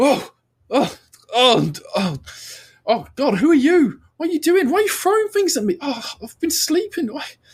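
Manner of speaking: jolted, flustered, startled, very high-pitched babble. Voicing a honeymooning husband hit by a dropped camera: startled honeymooning husband. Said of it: "Let's say it's this guy. Just goes".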